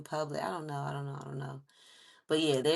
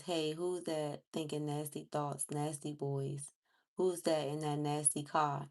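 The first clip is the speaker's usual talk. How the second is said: lyric reading. Acted. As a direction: read the lyrics out steadily. Reads lyrics off screen.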